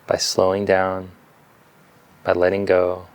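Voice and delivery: calm meditation guidance with long silences between phrases; unhurried yoga teacher leading breath awareness; guided meditation. Real, not acted. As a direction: guide them gently into stillness, leaving space after each phrase.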